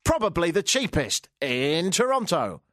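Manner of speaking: mock beer-commercial slogan read; Carlsberg approach. Shown as a demonstration. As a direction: deliver it like a smug ad tagline. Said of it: "use the sort of Carlsberg approach".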